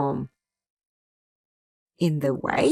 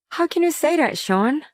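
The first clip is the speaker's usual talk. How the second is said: hurt protest; 7 semitones higher than usual. Acted. Wife hurt by husband's insult.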